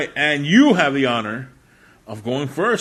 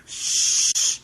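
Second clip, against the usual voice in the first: whisper; 4 dB quieter, much slower than usual. Acted. Joke secret.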